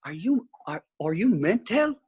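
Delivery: put-on Welsh-accented one-liner, pitch lifting on the question; mimicked Welsh accent. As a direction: imitate a Welshman asking, pointedly. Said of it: "The accent's perfect".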